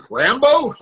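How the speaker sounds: high-pitched disbelieving question; mock astonishment. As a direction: ask it wide-eyed, voice shooting up. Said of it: "He was like".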